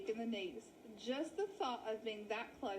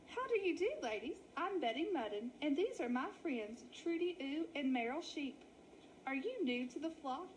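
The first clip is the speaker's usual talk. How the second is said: put-on chatty old ewe; 2 semitones higher than usual. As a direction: greet the newcomers like a nosy hostess. Betty Mutton greets newcomers.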